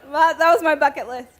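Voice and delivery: usual speaking voice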